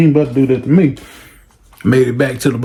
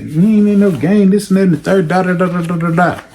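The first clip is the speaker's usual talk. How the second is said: higher, defensive ranting mom; fading mom rant; 6 semitones higher than usual. Retold or imitated. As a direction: insist he's innocent. Mother defending son again.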